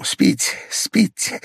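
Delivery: hushed, voiceless soothing whisper. A narrator's reading. Pavel settling the patient to sleep, whispering. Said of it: "прошептал Павел Павлович".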